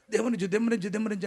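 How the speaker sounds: imitating a woman saying దెమ్మనిజు for దీవించు; mangled blessing. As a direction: mimic her garbled prayer, lightly voiced. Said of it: "అంటుంది".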